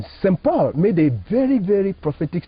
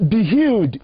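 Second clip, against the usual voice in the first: a firm, authoritative "Be healed"; commanding power; 3 semitones higher than usual. Shown as a demonstration. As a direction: speak it as a command that heals. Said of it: "Same words, but different energy".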